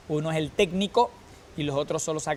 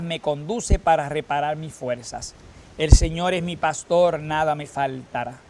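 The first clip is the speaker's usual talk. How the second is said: steady, prayerful chanting cadence; psalm recitation. Acted. Lector leading the congregation in the psalm, prayerful. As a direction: read each verse as prayer. Reads psalm verses between responses.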